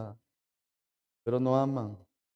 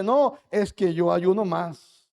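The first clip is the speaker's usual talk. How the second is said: mock proud boast; 3 semitones higher, slower than usual. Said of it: "El orgulloso dice".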